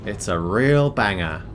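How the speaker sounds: put-on slipping lightly into an Australian accent; drawn-out, lightly put-on Australian accent. Streamer plugging a podcast interview, slight Australian accent. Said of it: "said it in an Australian accent".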